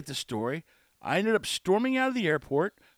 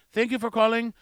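lightly mimicked scripted phone courtesy; a hint of wordy, formal agent; long-winded call-center agent; 3 semitones higher than usual. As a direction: recite an overlong customer-service script. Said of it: "they just stretch out".

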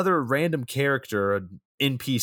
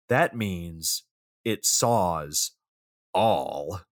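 low, halting movie-line delivery; deadpan quote; 6 semitones lower, much slower than usual. Retold or imitated. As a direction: drop low and pause before each last word. Quotes the film's classic line.

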